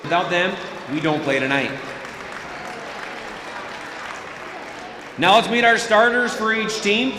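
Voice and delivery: PA announcer over the gym speakers; echoing stadium announcer. Acted. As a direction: read the lineup like an arena PA. PA announcer introduces visiting starters.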